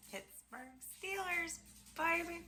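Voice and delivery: high, slow, proud Pittsburgh Steelers; excited. Real, not acted. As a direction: show off the hat, thrilled. Showing off favorite Steelers hat.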